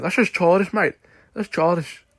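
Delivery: mock a superior fighter, slipping into Australian; botched Australian accent. Imitating Garry looking all superior, accent slipping into Australian. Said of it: "That's Australian, sorry".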